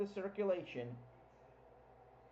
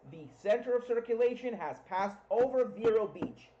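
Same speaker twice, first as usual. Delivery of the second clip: excited; 4 semitones higher, 3 dB louder than usual. Real, not acted. Reporting landfall with excitement.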